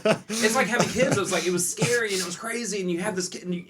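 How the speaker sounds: giddy, laughing through the words. Real, not acted. Gleeful laughing outburst.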